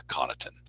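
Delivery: Connaughton stressed on the first syllable, low and soft; low, soft CON-uh-tun for Connaughton; corrected name stress. Retold or imitated. PR guy correcting announcer, Connaughton with first-syllable stress. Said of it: "he goes".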